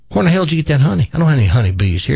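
rapid-fire farmer's disbelief; baffled farmer. Acted. Farmer questioning the city guy about honey, baffled. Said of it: "And the farmer said".

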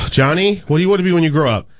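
tired teacher calling on a pupil; weary teacher. Acted.

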